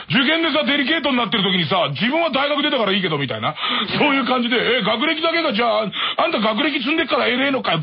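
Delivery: picking a fight over exam stress, half in jest; mock teen outburst. Teen son to father at dinner, mock angry outburst.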